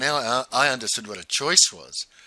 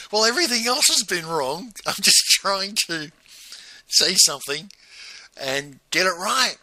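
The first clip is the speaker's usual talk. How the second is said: imitated aggravation, high and raised; Corinne; 8 semitones higher, 4 dB louder than usual. Participant protesting to the forum leader, high aggravated imitation. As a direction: voice a participant at wits' end, pitched well up. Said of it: "she was getting more and more aggravated".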